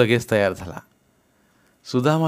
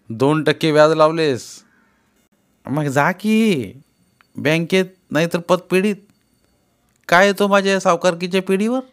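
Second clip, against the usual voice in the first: rising anger; 5 semitones higher, 4 dB louder than usual. Acted. Trader scolds Sudama heatedly.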